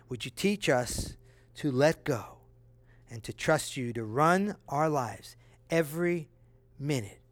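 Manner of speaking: earnest closing prayer, hands lifted in the voice. Acted. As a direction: pray over the congregation, steady and sincere.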